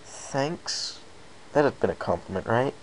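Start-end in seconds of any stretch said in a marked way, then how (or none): 0.1-1.0 mumbled thanks. Acted. Awkward narrator voice.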